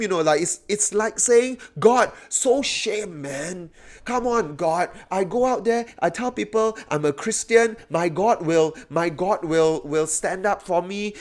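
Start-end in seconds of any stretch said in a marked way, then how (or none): 1.8-11.1 high-pitched pleading with God; shamed complaint. Acted. Believer embarrassed before others, complaining to God in shame. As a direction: protest like someone let down in public. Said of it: "Wow, so it's shame".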